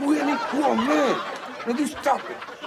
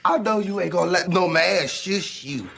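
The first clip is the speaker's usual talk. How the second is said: lightly voiced sassy neighbourhood woman; bossy, teasing girl from the block; Shanae. Martin voices Shanae all through.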